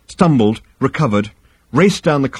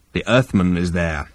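lower, heavy alien captain; low Vogon voice; 4 semitones lower than usual. Acted. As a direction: growl the report flatly. Vogon reply.

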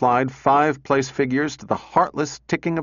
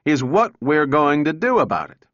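loud, raised demand; shouting; 4 semitones higher, 4 dB louder than usual. Acted. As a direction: shout it at him. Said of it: "shouted Donovan".

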